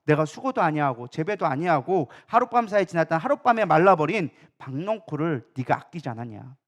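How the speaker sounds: a hint of divine rebuke; God reproving. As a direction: reason with him in a low, measured reproof. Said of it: "여호와 하나님이 뭐라고 얘기합니까".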